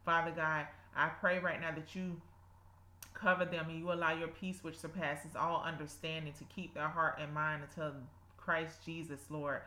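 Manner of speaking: earnest spoken prayer. Acted. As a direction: pray aloud with devotion. Leads a prayer.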